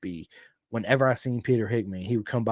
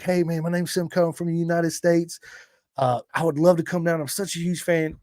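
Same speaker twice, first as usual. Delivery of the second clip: eager phone greeting; 5 semitones higher than usual. Retold or imitated. Eager self on phone call.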